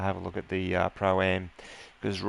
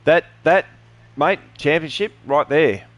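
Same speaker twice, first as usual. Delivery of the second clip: excited; 7 semitones higher, 6 dB louder than usual. Real, not acted. Finish line call.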